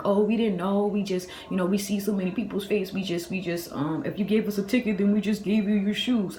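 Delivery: mimicking flustered, clueless clerks; mock scared and stupid. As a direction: stumble through a lame excuse, mockingly. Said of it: "now they acting all scared and stupid".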